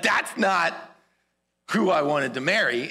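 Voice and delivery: retold indignant protest; furious. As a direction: act out an angry objection, firmly. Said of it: "he's furious".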